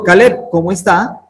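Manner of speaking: "cómo está" lifted as a question; questioning tune. Shown as a demonstration. Teacher showing Caleb a question without question marks, questioning tune.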